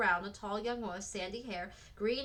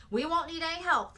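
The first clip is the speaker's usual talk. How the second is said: high, louder, hasty refusal; quick refusal; 8 semitones higher, 7 dB louder than usual. A narrator's reading. Frances refusing Missus Minton's help, quick and high. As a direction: turn the offer down in a hurry, pitched up. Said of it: "Frances said quickly".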